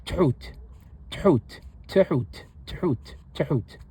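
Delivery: Tehut with a quick stop after the first t; repeated demo. Shown as a demonstration. Teacher drilling the word for the learners. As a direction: repeat Tehut, catching after the t each time. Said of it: "It is pronounced like this".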